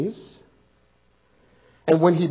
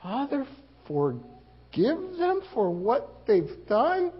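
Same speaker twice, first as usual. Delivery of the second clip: quoting Jesus; 5 semitones higher, 3 dB quieter, slower than usual. Retold or imitated. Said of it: "I must forgive".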